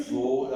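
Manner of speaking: So with a tightly rounded, closed o; So, not open like "saw"; close O. Shown as a demonstration. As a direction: narrow the o in So towards u. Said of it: "it's a close O".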